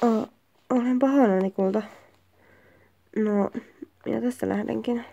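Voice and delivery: soft, low regretful goodbye; subdued apology. Acted. Partner apologising to a sweetheart before leaving, subdued. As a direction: drop low and quiet, acting sorry.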